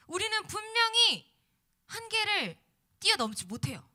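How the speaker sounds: loud, rising preacher's exhortation; preaching. Acted. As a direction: preach it out to the congregation. Sermon climax, full-force preaching.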